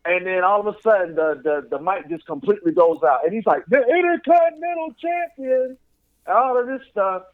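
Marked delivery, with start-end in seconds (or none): 3.7-5.8 higher-pitched announcer call; lightly voiced champion introduction; mock ring announcer. Imitating a ring announcer mid-story.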